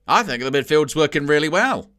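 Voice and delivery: a hint of a TV pundit, mock fawning praise; lightly voiced, smug pundit approval; Alan Shearer. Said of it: "Alan Shearer is such an arse kiss on commentary".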